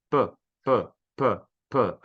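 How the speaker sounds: short separate "p" pops; "p" as a brief plosive, spaced out; isolated P sound. Shown as a demonstration. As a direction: pop each "p" on its own. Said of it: "Não vibra o P".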